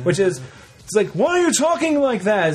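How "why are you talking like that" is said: higher mocking Tina Fey. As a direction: poke fun as Tina Fey. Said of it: "Tina Fey doing Jerry Seinfeld".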